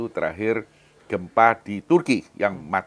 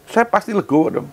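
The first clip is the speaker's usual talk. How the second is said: emphatic; 12 semitones higher, 7 dB louder than usual. Real, not acted. Emphatic claim of acceptance.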